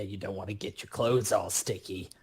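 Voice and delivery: usual speaking voice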